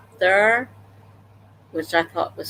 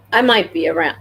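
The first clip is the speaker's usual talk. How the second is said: talking through a mouthful of popcorn; words round a bite of popcorn; munching popcorn; 4 dB louder than usual. Real, not acted. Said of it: "I'm sorry, I'm eating popcorn".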